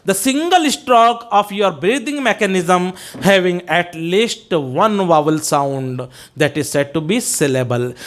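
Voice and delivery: slow, deliberate definition; measured dictation. Real, not acted. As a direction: dictate it slowly, phrase by phrase.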